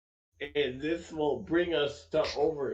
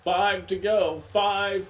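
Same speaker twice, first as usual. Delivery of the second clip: excited; 5 semitones higher, 6 dB louder than usual. Real, not acted. Laps countdown called.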